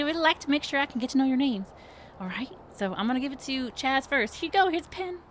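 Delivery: very high, fast, gushing perky voice; bubbly HR lady. Acted. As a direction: chirp it out like an overeager hostess. GM keeps playing Becky.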